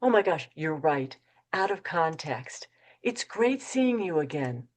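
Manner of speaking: easy, unruffled "Oh my gosh, you're right"; the calm way to handle a forgotten meeting; calm recovery. Shown as a demonstration. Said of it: "Say this instead of panicking".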